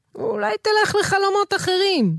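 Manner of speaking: cross, sharp tone. Itamar to a demon that follows him in his dreams; angry. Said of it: "כעס איתמר".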